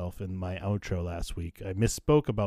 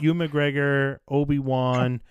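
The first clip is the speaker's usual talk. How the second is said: louder, hammed-up sponsor plug; mock ad read; 3 semitones higher, 5 dB louder than usual. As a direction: play it like a cheesy ad announcer. Fake sponsor announcement.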